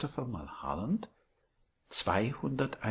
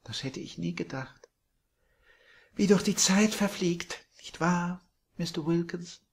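put-on high, much louder gushing old landlady; sweet landlady; 8 semitones higher, 6 dB louder than usual. A narrator's reading. Landlady surprising Billy from behind, high and gushing. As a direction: coo it like a doting hostess.

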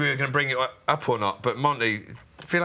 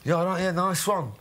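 A singer. Retold or imitated. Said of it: "Liam Gallagher".

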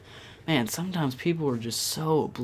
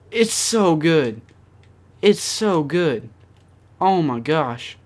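happy gushing; 3 semitones higher, 7 dB louder, slower than usual. Real, not acted. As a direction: linger on how good it is. Savoring a gun while playing.

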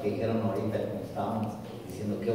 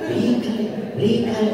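high urging call, louder; insistent beckoning; 10 semitones higher, 6 dB louder than usual. Retold or imitated. Dead husband insisting his wife jump the river, high urging call. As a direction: keep pressing her to jump, pitched up.

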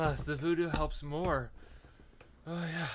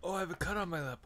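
alarmed; 6 semitones higher, faster than usual. Real, not acted. Repeated rising alarm.

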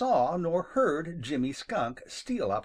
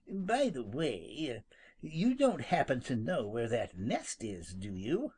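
slow, softer, offhand; careless; 4 dB quieter than usual. Acted. Skunk fishing for the nest, careless and slow. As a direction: toss it off as if it hardly matters. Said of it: "asked Jimmy carelessly".

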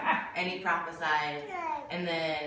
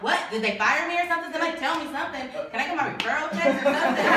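alarmed panic; 6 semitones higher, much faster than usual. Retold or imitated. Panicking, locked out at work.

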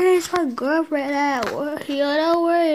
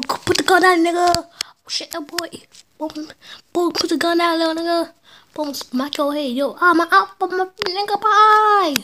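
mock police standoff yell; 4 semitones higher, 4 dB louder than usual. Yelling at in-game police.

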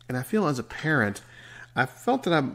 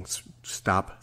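stammering. Real, not acted. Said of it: "I find myself stammering".

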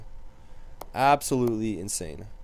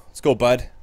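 cheering; 2 semitones higher, 7 dB louder than usual. Real, not acted. Cheering on his goalie.

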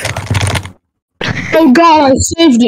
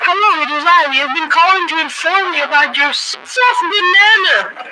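voice changer; 4 semitones higher, 5 dB quieter than usual. Pretend. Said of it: "Let me turn off the voice changer".

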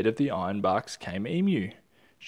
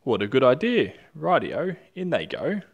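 loud, high and eager; gleeful agreement; 4 semitones higher, 8 dB louder than usual. Acted. Dingo gladly agrees to add mud, loud and high. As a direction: jump at the idea happily. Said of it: "Dingo laughed".

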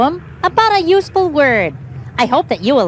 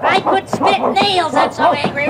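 hammed-up anger building to growls; acted angry; 4 semitones higher than usual. Shown as a demonstration. Teaching a dog to act angry, hammed-up anger. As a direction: work up a big mock rage. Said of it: "Now let's try being angry".

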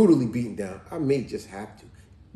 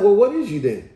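higher, louder mother voice; raised, pointed quoted question; mother's question; 6 semitones higher, 8 dB louder than usual. Retold or imitated. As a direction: imitate a mom demanding an answer. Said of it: "She said".

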